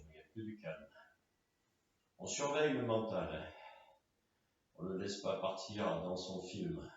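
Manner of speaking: soft, settling voice; quietly steer the mind to calm; guided relaxation. Real, not acted.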